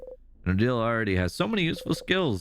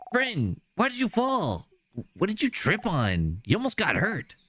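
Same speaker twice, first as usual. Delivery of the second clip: higher, probing and anxious; worried Isabeau; 8 semitones higher than usual. Acted. Isabeau questioning Bonnie's friend after the fall, anxious. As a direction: question gently but urgently.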